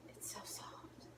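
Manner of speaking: awed, barely-there whisper; almost speechless. Real, not acted. Awestruck at her own soft hair, nearly speechless whisper. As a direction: let it out as a stunned whisper. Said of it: "I'm almost speechless".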